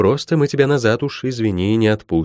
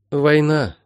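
higher, exhaled realisation; small, dawning exhalation; breathed out; 6 semitones higher than usual. A narrator's reading. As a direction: let the word out on a breath. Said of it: "выдохнула Молли".

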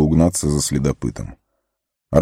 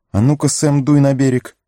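lightly voiced Sam; 8 semitones higher than usual. Sam urging himself, pitch high.

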